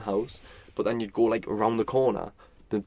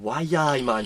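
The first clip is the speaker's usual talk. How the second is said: a hint of a tourist's Geordie; lightly mock the Geordie accent; 4 semitones higher, 3 dB louder than usual. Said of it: "trying to do the Geordie accent".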